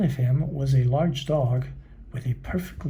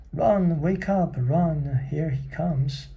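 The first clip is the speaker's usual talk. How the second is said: panicked warning; 4 semitones higher, slower than usual. Acted. Lethargarians flee the watchdog.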